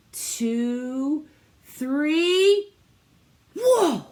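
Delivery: high, loud call and cry of wonder; loud countdown. Real, not acted. Teacher cheering the class roar, loud and high. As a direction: call out the last count, then gasp at the roar.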